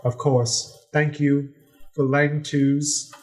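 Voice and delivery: formal, courtly announcer raising the pitch; noble voice. Acted. Natasha announcing her party to the pirate king, a lightly noble voice. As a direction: present the party like a herald at court. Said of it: "in her best, uh, noble voice".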